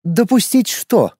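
slow, high, mock puzzled; feigned bewilderment. A narrator's reading. Lorana faking confusion at the mage's accusation. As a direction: pretend you have no idea. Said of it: "изобразила полное недоумение Лорана".

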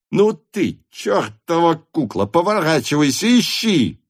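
high, angry yell at the servant; furious shout. A narrator's reading. Denisov shouts at the servant Lavrushka, furious. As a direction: bellow it, threatening. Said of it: "вдруг закричал Денисов".

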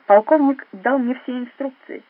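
said loudly with authority; loud, firm statement. A narrator's reading. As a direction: Gomikawa declaring loudly to confuse the agents. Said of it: "громко сказал Гомикава".

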